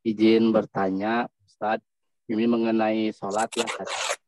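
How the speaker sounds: choppy, cutting-out line; breaking up over a bad connection; glitching robot. Real, not acted. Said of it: "suaranya putus-putus".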